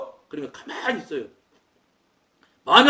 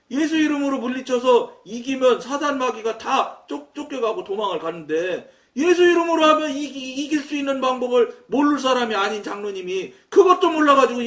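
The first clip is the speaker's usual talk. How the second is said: retold scolding; 4 semitones higher, 3 dB louder than usual. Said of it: "막 혼냈겠어요".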